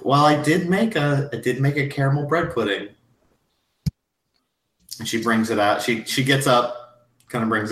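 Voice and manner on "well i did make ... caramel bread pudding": lightly raised, modest hostess voice. Acted. Mrs Garrison offering her pudding, lightly higher voice. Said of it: "She's like".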